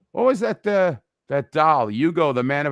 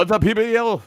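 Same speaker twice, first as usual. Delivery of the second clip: booming announcer call, higher and louder; fighting game announcer; 6 semitones higher, 4 dB louder than usual. Retold or imitated. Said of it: "my fake announcer voice".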